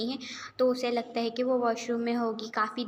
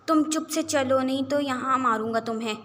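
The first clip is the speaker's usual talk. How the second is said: raised-voice scolding; angry threat; 2 semitones higher, 5 dB louder than usual. Acted. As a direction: warn her to obey, angrily. Angry brother threatens his sister. (غصے بھری دھمکی)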